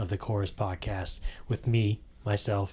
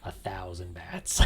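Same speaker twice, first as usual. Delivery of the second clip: spooky low whisper; eerie hushed punchline; 6 semitones lower, 10 dB quieter than usual. Acted. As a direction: deliver the scare in a hush.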